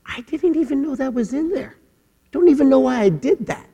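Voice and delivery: quietly amazed at your own outburst; bewildered self-surprise. Pretend. Someone shocked by what just came out of their mouth, soft and high. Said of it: "you go".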